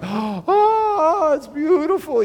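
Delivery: high, loud crying-out of wonder; awed gasp. Retold or imitated. Crowd watching fireworks at a show, crying out in awe. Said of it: "you know, like this".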